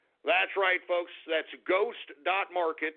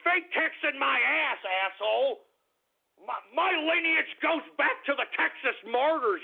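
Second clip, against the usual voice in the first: put-on belligerent drunk; 2 semitones higher than usual. Raging at a commenter.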